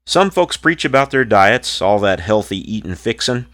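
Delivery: rhythmic rhymed poem recital; cowboy poetry. Acted. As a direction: recite it like a campfire cowboy poet. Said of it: "This cowboy poem is called".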